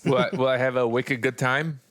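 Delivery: put-on Chicago accent with Boston slang; light Chicago accent, asking playfully. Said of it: "me doing a Chicago accent, but trying to use Boston slang".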